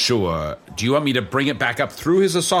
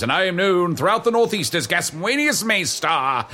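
pompous wizard; 2 semitones higher than usual. Acted. Wizard's grand self-introduction.

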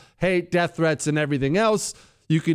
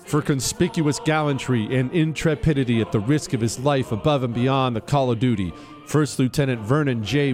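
formal citation read over music; crisp military citation. Acted. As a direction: read it like an official military commendation. Reads the medal citation aloud.

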